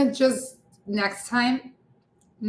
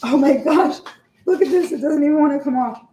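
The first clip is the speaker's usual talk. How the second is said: high, loud exasperation; exasperated; 6 semitones higher, 6 dB louder than usual. Real, not acted. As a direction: squeal at the stuck cookies. Cookies stuck to the tray.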